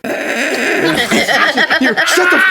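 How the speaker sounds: high, loud mock outburst; hammed-up shrieked interruption; retold angry yell. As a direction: cut him off as a fed-up wife. Wife snaps at him over phone.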